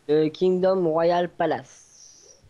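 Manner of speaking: slow, careful attempt at an English accent. Real, not acted. Showing the server's palace, names it in a slow self-mocking English accent. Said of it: "mon accent anglais qui est parfait".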